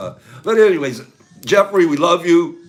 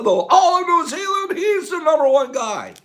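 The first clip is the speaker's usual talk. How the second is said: excited shout; 13 semitones higher than usual. Real, not acted. Host hyping Jeff to viewers, excited shout. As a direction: yell it out, bursting with pride.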